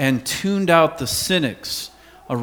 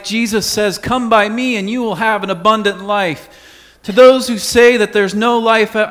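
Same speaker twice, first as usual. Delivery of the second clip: rising preacher cadence, some lines pushed louder; preaching; 3 dB louder than usual. Acted. Pastor proclaiming Jesus's answers to the cynics, full preaching voice. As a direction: preach it out to the whole congregation.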